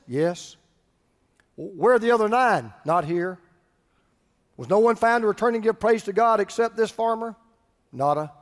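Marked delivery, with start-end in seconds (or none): 1.5-2.7 brisk question with an obvious answer; pointed, matter-of-fact question; rhetorical question. Shown as a demonstration. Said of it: "those questions are rhetorical questions". 4.5-7.3 brisk question expecting the answer none; pointed question, no pauses; rhetorical question. Shown as a demonstration. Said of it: "those questions are rhetorical questions".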